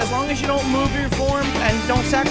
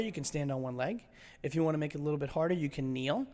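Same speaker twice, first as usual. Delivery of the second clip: much softer, lower, relaxed; soft, calm instruction; 7 semitones lower, 11 dB quieter than usual. Real, not acted. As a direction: wind down gently.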